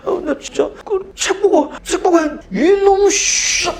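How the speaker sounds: high sobbing plea; crying plea. Retold or imitated. Scared boy pleading with teacher, high crying voice. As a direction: whimper it through tears.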